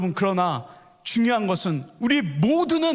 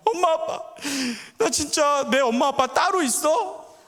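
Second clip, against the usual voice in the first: put-on high, wailing little-boy plea; acted tearful child; 7 semitones higher than usual. Youngest son asking his parents if they are really his, acted crying. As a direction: plead through mock sobs. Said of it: "막 울고 난리가 나요".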